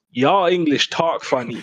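slow, lightly exaggerated American drawl; mock American accent. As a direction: mimic an American tourist with a drawn-out accent. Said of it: "that's my default American accent".

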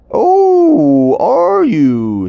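loud, high surprised vulture; creepy vulture croak. Acted. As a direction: shriek it like a startled bird. Vulture reacts.

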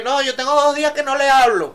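high, loud mocking whine; a hammed-up petulant brag; mock sulky quote. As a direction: sneer it like someone proudly holding a grudge. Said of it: "eso beta y que".

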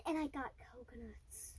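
hushed fearful low voice; afraid. Real, not acted. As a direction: say it as if scared. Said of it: "Why do you say it like that? Like you're afraid".

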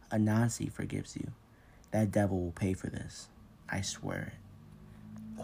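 put-on dying old man, soft and gasping; barely breathing, fading out; frail breathless old person. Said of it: "The old man gasped".

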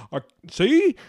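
mild put-on drawling accent for the right-wing guy. A right-wing bro defending her, in a light put-on drawl accent. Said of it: "why I have this accent right now".

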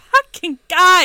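hissing feral vampire. Retold or imitated. Echoing friend's Nando impression.

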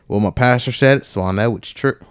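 put-on a Southern accent creeping out. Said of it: "my southern accent just came out".

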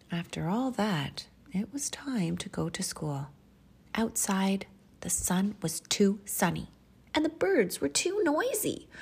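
animated picture-book reading with measured pauses; expressive children's storyteller; storytime narration. Acted. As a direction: read it to little children, savoring key words.

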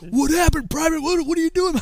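high, loud in-your-face demand; loud sergeant grilling a private; yelling drill sergeant. Retold or imitated. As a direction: shout it at a recruit nose to nose. Sergeant yells nose to nose.

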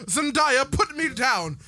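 hammed-up British telling-off; mock British accent. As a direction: put on a bad British accent. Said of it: "if I tried with the British accent".

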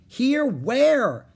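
high, loud questioning shout; puzzled long-distance call; calling back. A narrator's reading. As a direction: shout back, searching for her. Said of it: "he called back".

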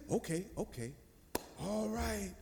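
softly soothing, lightly acted; imitated calm policeman; smooth officer. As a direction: reassure a child, voice dropped soft. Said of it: "Officer, smooth as, smooth as can be".

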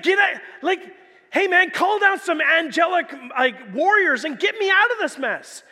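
mildly hammed-up scoffing demand; scolding and mocking. Preacher replays the thief demanding rescue from the cross, mildly mocking. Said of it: "kind of, like, scolding and mocking him".

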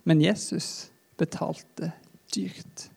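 slow whisper fading almost to nothing; whispered, slow, the words dying away; solemn whisper. Acted. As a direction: breathe it out, heavy with the cost. Solemn point of the sermon.

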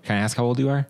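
lifted pitch, repeating for the listener; repeated question. Real, not acted. Repeats after "I'm sorry, what?.

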